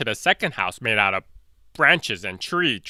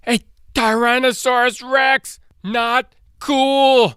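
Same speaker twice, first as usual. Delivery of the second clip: high squeaky alarmed cry; panicked little dinosaur; 13 semitones higher, 4 dB louder, slower than usual. Acted. Little Protoceratops sees the T-Rex, high panicked squeal.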